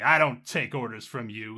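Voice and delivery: indignant officer's bark, mildly done; lightly voiced officer snapping back. A narrator's reading. Defiant agent answers the drone, barking back. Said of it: "he, he barks back".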